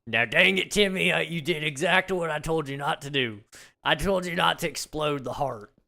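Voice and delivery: loud, high mock scolding; hammed-up dad telling off his son; dad ticking off Timmy for exploding the heart.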